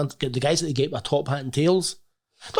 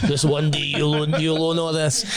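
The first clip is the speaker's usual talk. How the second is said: hint of Mufasa; 2 semitones higher, slower than usual. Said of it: "Simba and Mufasa saying".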